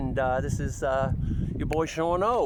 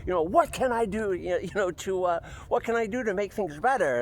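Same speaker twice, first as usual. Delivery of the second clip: customer service voice; 6 semitones higher than usual. Retold or imitated. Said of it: "I'm like".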